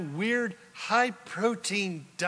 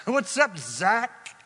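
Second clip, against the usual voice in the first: higher-pitched, jaunty mock angel; breezy angel greeting; 4 semitones higher, 3 dB louder than usual. Angel bopping in on Zechariah, breezy high-pitched greeting. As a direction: pop in with a casual, playful hello. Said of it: "come bopping in from outside".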